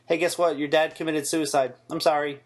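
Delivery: a light deadpan take on the mother breaking terrible news; mocking deadpan mother. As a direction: deliver awful news with no feeling at all. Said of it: "You have no emotion in your voice".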